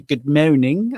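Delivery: comic bad attempt at a French accent, loud; mock bad French accent. Fan quoting a TV comedy character, mock bad French accent. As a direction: imitate someone botching a French accent. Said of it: "the guy who can't do the accent".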